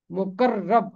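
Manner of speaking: مقرب said with a doubled, held r, muqarrab. Shown as a demonstration. Teacher showing the tashdid on the r in مقرب. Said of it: "رے کے اوپر تشدید ہے".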